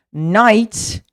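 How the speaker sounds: knight with silent K. Shown as a demonstration. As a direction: say knight as nite, no K sound. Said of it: "knight of cavaleiro".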